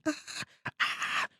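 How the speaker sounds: soft, half-hearted screams; small pretend screams; mock screaming. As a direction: imitate a screaming crowd under your breath. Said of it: "Everybody's screaming".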